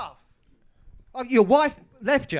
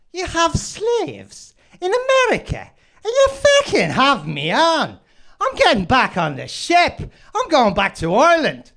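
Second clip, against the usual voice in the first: put-on Irish accent; 3 semitones higher than usual. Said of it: "That's a terrible Irish accent".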